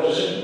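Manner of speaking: slow, quiet buzz of the z sound; soft buzzing zzz. Shown as a demonstration. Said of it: "tampoco hace zzz". (zeta zumbada suave)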